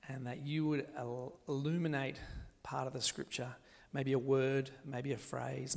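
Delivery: soft, sincere prayer; spoken prayer. Real, not acted. Preacher praying for the congregation before rereading Scripture, soft prayer. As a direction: pray quietly on the listeners' behalf.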